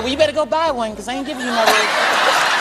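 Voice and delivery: Michael Jackson. Retold or imitated. Michael refusing Chris his car, lightly imitated high voice. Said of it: "He said".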